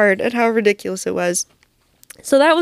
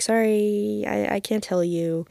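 quiet; 6 dB quieter, slower than usual. Retold or imitated. Quiet refusal to boy.

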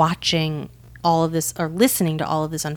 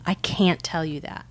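understated deadpan retelling; imitating a stone-faced mentor; poker-faced; 2 semitones lower than usual. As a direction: deliver it evenly, giving nothing away. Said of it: "like, the poker face".

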